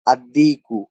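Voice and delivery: "আর দিকু" said as "ad-diku", no l; silent lam, doubled d. Shown as a demonstration. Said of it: "আল উচ্চারণ না হয়ে দালটা".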